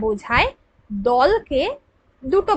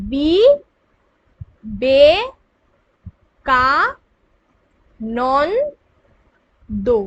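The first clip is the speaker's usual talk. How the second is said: "বি, বে, কা, নন, দো" with long pauses between; each syllable separate; 3 dB louder, much slower than usual. Shown as a demonstration. Teacher dividing a name for pupils, "বি, বে, কা, নন, দো" syllable by syllable. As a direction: sound it out slowly, নন kept as one piece. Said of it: "আলাদা আলাদাই আমরা উচ্চারণ করছি".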